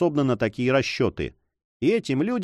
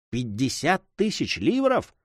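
greedy exclamation; 2 semitones higher than usual. A narrator's reading. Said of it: "вскричал майор".

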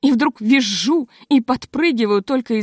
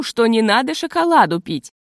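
plain reading voice

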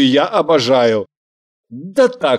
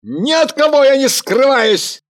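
barked; 10 semitones higher than usual. A narrator's reading. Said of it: "рявкнул Михаил".

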